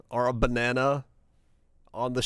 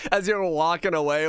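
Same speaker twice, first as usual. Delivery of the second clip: usual speaking voice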